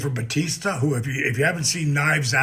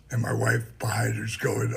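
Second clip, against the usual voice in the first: whispered; 4 semitones lower, 5 dB quieter than usual. Real, not acted. Whispered aside about wife.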